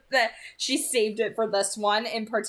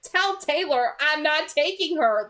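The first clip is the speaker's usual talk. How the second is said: much higher, rushed and flustered; mock-panicked teen, high and fast; panicky boy voice; 9 semitones higher than usual. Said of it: "He's like".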